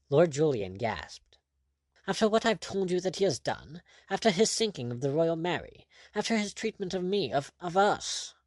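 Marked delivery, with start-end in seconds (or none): 2.1-8.3 high-pitched, spluttering indignation; indignant protest. A narrator's reading. Lord aghast that his enemy goes free, indignant. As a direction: pile up the grievances, high and indignant. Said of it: "protested indignantly".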